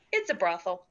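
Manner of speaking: Triceratops voice, barely changed; lightly voiced lumbering Triceratops; plant-eating dinosaur. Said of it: "I say it in my, uh, Triceratops voice".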